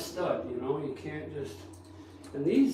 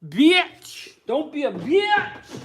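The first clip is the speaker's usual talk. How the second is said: high shouted outburst; yelling; 11 semitones higher, 8 dB louder, slower than usual. Real, not acted. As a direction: yell it out sharply. Yelling, much higher and louder.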